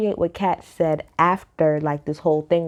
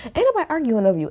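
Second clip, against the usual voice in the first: fast, brushed-off repeat of the retort; quick repeat; 5 semitones higher, much faster than usual. Retold or imitated. Retelling the cast's reply to Eddie, fast and dismissive. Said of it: "all three of them was like".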